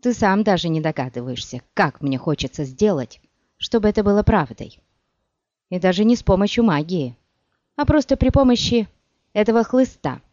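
loud bitter threat; hissed. A narrator's reading. Sorceress threatening the witcher, loud and bitter. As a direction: menace him with the whip in your voice. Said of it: "прошипела она".

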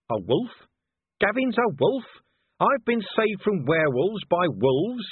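a hint of a sarcastic, exasperated old copper; lightly voiced irritable Vimes. Vimes's voice in dialogue.

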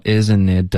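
"isn't it" drawn out as one linked run; linked-up demo. Shown as a demonstration. Teacher models linking for a student, linked-up "isn't it". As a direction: join "isn't it" smoothly, slowly. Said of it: "要连贯".

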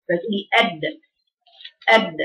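"أد" closed hard, then released in a short bounce; crisp echoing stop on "أد"; qalqala demonstration. Shown as a demonstration. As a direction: shut the د in "أد" and pop it open quickly. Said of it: "بفتح المخرج بعد غلقه مباشرة".

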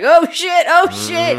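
mock alarmed yelp, high and loud; retold panic. Recounts alarm while turning the car.

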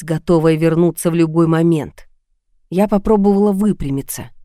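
ordinary delivery

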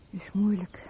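hushed, understanding; barely voiced comfort; whispered sympathy. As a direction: whisper it softly. Sympathizing with suicide thoughts.

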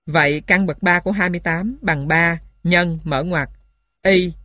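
normal talking voice

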